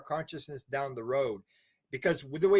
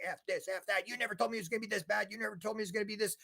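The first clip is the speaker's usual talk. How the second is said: retold swearing; 6 semitones higher, faster than usual. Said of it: "he starts swearing".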